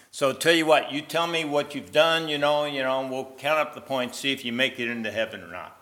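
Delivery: booming heavenly gatekeeper. Acted. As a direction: play the cheerful gatekeeper at heaven's gate. Gatekeeper voiced in sermon story.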